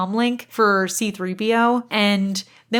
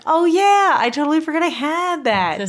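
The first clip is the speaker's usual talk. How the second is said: much higher prissy droid voice; C-3PO remembering; 8 semitones higher, 5 dB louder than usual. Retold or imitated. C-3PO realizing he forgot the comm link, high fussy droid voice. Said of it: "And C three P O's like".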